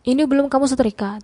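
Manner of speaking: can't believe it isn't ironed; disbelieving. Acted. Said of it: "tanyanya tidak percaya".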